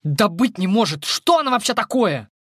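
can't believe her eyes; astonished. Acted. Fri, stunned that the light grenade fails, in disbelief. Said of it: "поражённо на них вытаращилась".

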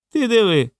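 high, astonished exclamation; amazed exclamation. A narrator's reading. Drozd spots something at the door, amazed. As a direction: marvel at what you see. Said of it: "здивовано вигукнув Дрозд".

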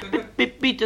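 very high stammered plea; a frightened boy's squeak; squeaky pupil. Acted. Shy pupil answers again.

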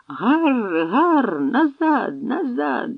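high hoarse shriek of a fighter. Acted. Long-armed warrior shrieks hoarsely while parrying, hoarse high shriek. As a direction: screech it raspily mid-fight. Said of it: "хрипко верещав".

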